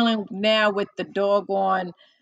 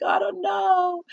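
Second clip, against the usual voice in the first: hesitant; 11 semitones higher than usual. Retold or imitated. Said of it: "I'm like".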